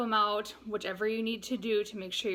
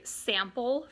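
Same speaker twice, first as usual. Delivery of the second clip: SAM-ple, slow and drawn out with a rising end; drawn-out sample for the syllables; 3 semitones higher than usual. Shown as a demonstration. Teacher stretches sample out for the class. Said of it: "you can see where you have to clap it out".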